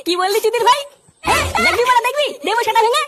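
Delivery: angry threat. Acted. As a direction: threaten to hit him. Father threatens to beat son.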